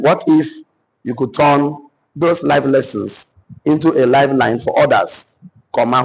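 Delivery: measured repeat for note-takers; deliberate read-out of a question to copy down; dictation. Acted. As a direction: dictate it in phrases, pausing between. Repeats the dictation one more time.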